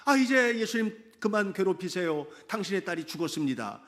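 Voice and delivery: mildly loud acted announcement; retold loud call. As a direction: call it out like news brought from the crowd. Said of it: "오면서 큰 소리로".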